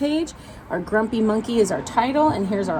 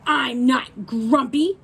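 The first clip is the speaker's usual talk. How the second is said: insisting; 2 semitones higher, slower than usual. Acted. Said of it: "insisted Jim".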